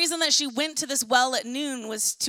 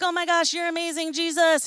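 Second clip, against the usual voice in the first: mock gushing; 4 semitones higher, 3 dB louder than usual. Woman gushing at Jesus, retold.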